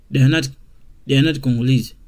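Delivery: they are not said word by word; full form slowly. Shown as a demonstration. Teacher showing the slow full form to students. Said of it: "Instead of saying".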